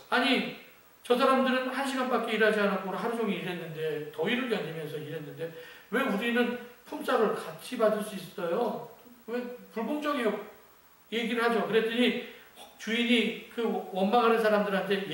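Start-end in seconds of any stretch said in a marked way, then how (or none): 0.1-10.4 mildly aggrieved, retold protest; resentful complaint. Workers complain to the owner about equal pay, mildly resentful. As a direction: protest the unfairness with a touch of indignation. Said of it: "집주인을 원망을 하죠".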